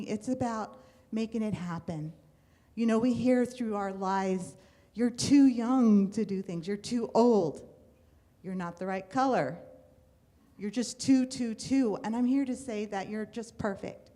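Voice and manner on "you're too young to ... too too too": scolding critics. Retold or imitated. Quoting what critics tell us.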